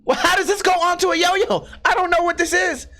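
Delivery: high-pitched, exasperated confusion; hammed-up, high, frustrated disbelief; retold bewilderment. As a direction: act out being baffled by the thing in the box. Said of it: "I'm like".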